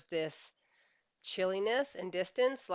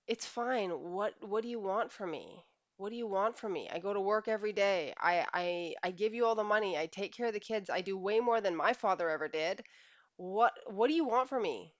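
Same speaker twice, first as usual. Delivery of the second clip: defensive husband; 3 semitones higher than usual. Retold or imitated. Acted defensive husband in quarrel.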